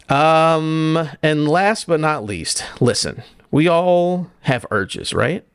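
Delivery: hammed-up serious preamble; mock solemn. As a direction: play it like a grave confession. Mock-serious setup for horny game.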